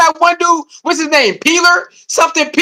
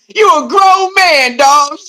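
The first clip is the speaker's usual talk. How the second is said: raised, slow reprimand; slower than usual. Real, not acted. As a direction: scold him hard, dragging it out. Scolding the man.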